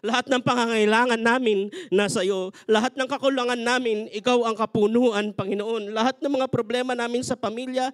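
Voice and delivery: fervent, pleading prayer voice; earnest prayer. Acted. Pastor leading the congregation in a surrender prayer, fervent.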